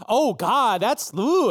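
a touch of mock dismay; mild flustered character gasp; Matilda dismayed. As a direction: wince and trail off.

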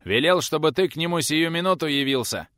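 put-on a brash boy delivering orders, insolent; cheeky reply. A narrator's reading. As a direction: lord it over the old man. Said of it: "борзо отвечал парень".

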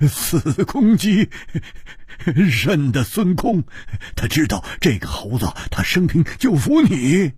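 chuckles breaking up the explanation; laughing. Acted. Hu Tiehua explains the trick to his friend, laughing. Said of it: "胡铁花大笑道".

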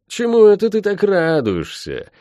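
surprised. Acted. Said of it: "спросила она".

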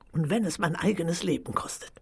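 fast, hissed whisper; menacing whisper. Acted. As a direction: whisper the vow with venom. Queen vows murder.

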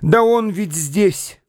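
high, eager cry of discovery; excited exclamation. A narrator's reading. The boy spots the man again, crying out excited. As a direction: burst out, jumping up. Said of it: "воскликнул, срываясь с места".

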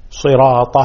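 صراط with long middle and final "ta"; open ta. Shown as a demonstration. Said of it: "فتح الطاء". (صراط بطاء مفتوحة)

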